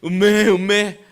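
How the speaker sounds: loud preacher's imitation of livestock; imitated livestock bleating. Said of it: "무슨 소리가 들렸겠습니까".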